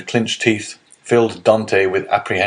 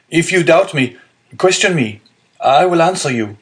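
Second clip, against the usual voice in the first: high, louder pleading cry; desperate cry; 9 semitones higher, 4 dB louder than usual. A narrator's reading. Prisoner begs the magistrate to question him, a desperate high loud cry. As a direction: throw every word at him, begging to be believed. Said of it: "cried the unhappy young man".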